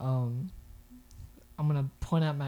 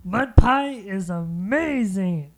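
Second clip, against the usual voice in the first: slow dreamy praise; 3 semitones higher, 9 dB louder, much slower than usual. Acted.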